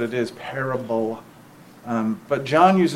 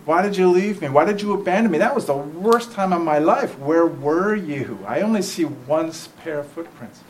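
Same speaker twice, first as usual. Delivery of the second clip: complaining believer; 3 semitones higher than usual. Retold or imitated. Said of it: "And they're like".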